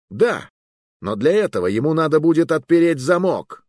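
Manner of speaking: gleeful triumph; triumphant retort. Acted. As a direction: taunt the guard.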